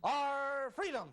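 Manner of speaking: high, stretched-out cry. Acted. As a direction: call it out slowly and high.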